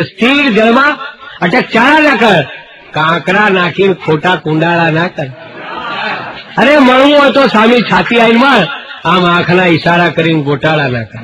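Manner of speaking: theatrical Gujarati poem recitation; dramatic poem recital. Acted. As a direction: declaim it like a stage poet.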